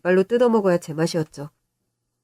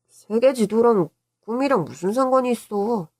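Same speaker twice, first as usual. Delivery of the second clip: put-on higher little-boy questioning; puzzled child; 4 semitones higher than usual. Boy questioning uncle about map and dreams, puzzled. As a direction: ask like a puzzled kid.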